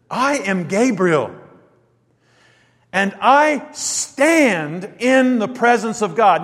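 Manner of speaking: slow, weighty proclamation; a mighty angel announcing himself; stern angel. Acted. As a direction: declare it with slow authority. Angel answers the doubter.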